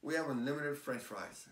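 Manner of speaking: restaurant server. Acted. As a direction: announce it slowly like a server to a diner. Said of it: "And then they go".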